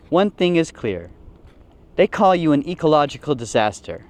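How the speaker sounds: hammed-up solemn farewell speech; a touch of a graveside speech; mock eulogy. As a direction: eulogize the hippo with lightly mock gravity. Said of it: "I wrote the eulogy".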